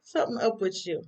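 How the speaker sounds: high, sly knowing hum, then a teasing line; knowing Pam. Retold or imitated. Pam teasing Karen about Zach, high and knowing. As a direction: play the nosy coworker who sees through her.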